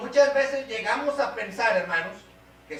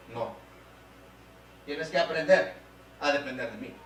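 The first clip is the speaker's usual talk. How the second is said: calm firm answer; 5 semitones lower than usual. Acted. Preacher voicing God answering the proud believer, calm and firm. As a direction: lower acted reply, settling down.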